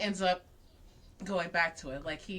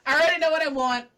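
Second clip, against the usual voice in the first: excited laughing quote; 6 semitones higher, 10 dB louder, faster than usual. Retold or imitated. Quoting him, laughing excitedly.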